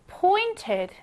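pointed said slowly and clearly, as the stressed part. Shown as a demonstration. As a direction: lean on pointed as you teach it. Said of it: "이 부분에 강세가 들어갑니다". (pointed 부분에 강세를 주어 천천히)

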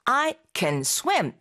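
I can swim said very slowly, can kept short; slow pronunciation demo. Shown as a demonstration. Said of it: "이렇게 발음하고". (발음 시범으로 I can swim을 아주 천천히)

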